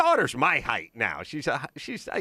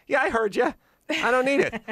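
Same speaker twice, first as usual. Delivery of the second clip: mock bored teen daughter; 10 semitones higher than usual. Daughter brushing him off.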